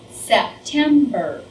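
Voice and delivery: "September" split slowly into its three syllables. Shown as a demonstration. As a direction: sound out "September" beat by beat. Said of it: "These are gonna be harder".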